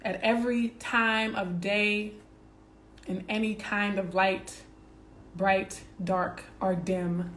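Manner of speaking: slow, earnest affirmation read. Acted. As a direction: savour each phrase like a mantra. Reads self-love affirmations slowly.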